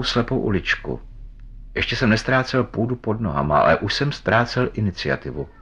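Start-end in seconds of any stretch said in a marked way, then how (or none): none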